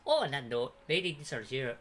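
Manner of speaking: put-on Irish-accented character voice. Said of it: "that's Irish".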